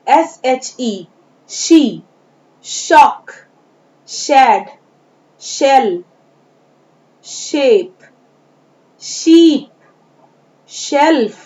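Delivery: each word read alone with a clear sh at the start; word list demo. Shown as a demonstration. Teacher reads sh-words aloud for pupils to copy, carefully. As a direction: read slowly, pausing after each word. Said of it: "मैं पढ़ के बताती हूँ".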